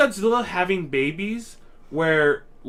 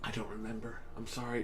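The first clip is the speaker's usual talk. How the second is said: quiet tipsy mumble; 6 semitones lower, 16 dB quieter than usual. Real, not acted. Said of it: "I'm so drunk right now".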